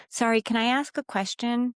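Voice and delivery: mock apologetic request; asking permission. Shown as a demonstration. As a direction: ask as if needing permission. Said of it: "One version asks permission to exist".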